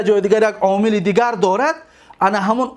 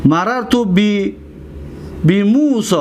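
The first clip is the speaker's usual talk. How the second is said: slow dictation; slower than usual. Shown as a demonstration. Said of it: "دقت دادید؟".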